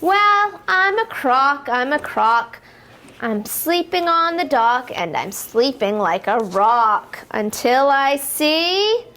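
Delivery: sing-song rhyming read-aloud for toddlers; lilting picture-book voice, building to the jump; reading to children. Acted. Teacher reading a rhyme to little kids, sing-song.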